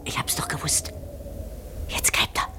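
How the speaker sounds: soft knowing whisper. Acted. Old woman watching the neighbour dig, whispering. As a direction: hush it, as if he might hear.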